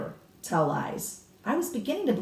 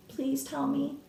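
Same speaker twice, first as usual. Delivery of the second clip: begging; 7 semitones higher, 7 dB quieter, slower than usual. A narrator's reading. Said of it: "I begged".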